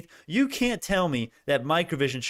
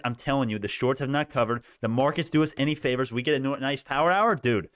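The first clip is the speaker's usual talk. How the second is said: usual speaking voice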